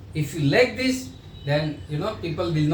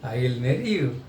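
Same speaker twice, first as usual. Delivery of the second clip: willing yes; 5 semitones lower than usual. Shown as a demonstration. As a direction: say it as if you truly mean it. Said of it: "Now same word you say".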